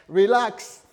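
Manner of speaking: high, loud burst; emphatic command to relax. Acted. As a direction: tell him to calm down, loudly. Repeats it forcefully after the laugh.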